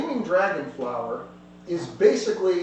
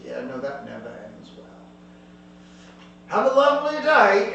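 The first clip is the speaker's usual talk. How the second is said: smug thug. Acted. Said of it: "He goes".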